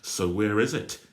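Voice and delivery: loud angry yell. Acted. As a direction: yell it right in his face. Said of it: "yelled Patrick".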